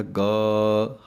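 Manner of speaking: ਗਾ with a long drawn aa; long vowel. Shown as a demonstration. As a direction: stretch the aa of ਗਾ. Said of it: "ਗੱਗੇ ਦੇ ਕੰਨੇ ਨੂੰ ਲੰਮਾ ਬੋਲ ਦੇਣਾ ਹੈ". (ਗਾ ਲੰਮਾ ਕੰਨਾ)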